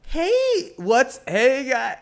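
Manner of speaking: very high, loud squealed hey; fake happy greeting. Showing how people fake happiness, squealing. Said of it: "people really have to fake happiness".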